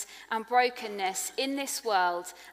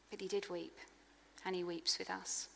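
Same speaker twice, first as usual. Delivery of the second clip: soft conclusion; 3 semitones lower, 13 dB quieter than usual. Real, not acted. Soft point close.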